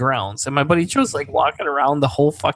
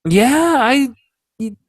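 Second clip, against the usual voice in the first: high, drawn-out stalling with long pauses; squirming, raised-pitch reluctant admission; sheepish hesitation; 9 semitones higher, much slower than usual. Retold or imitated. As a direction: act caught in a lie, giving in. Caught lying, reluctantly confesses.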